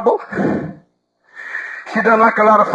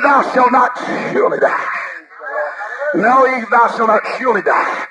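tempting voice; 2 semitones lower than usual. Acted. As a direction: whisper doubt into Eve's ear like the serpent. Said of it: "But another voice said".

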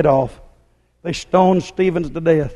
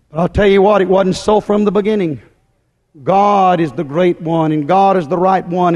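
emphatic preaching. Acted. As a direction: drive each repetition home with rising force. Builds preaching refrain to a peak.

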